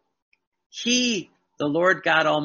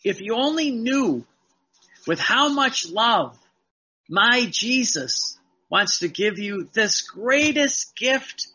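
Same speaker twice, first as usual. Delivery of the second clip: fervent plea; 3 semitones higher than usual. Retold or imitated. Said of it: "Louisa says this".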